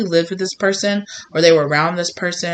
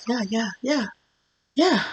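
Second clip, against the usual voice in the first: higher, softer rushed yeahs; nervous agreeing; 6 semitones higher, 5 dB quieter than usual. Acted. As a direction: agree just to get away. Nervous brush-off.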